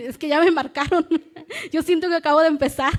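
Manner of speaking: risa con llanto, rápido; ríe y llora a la vez; riendo entre lágrimas. Real, not acted. (riendo entre lágrimas)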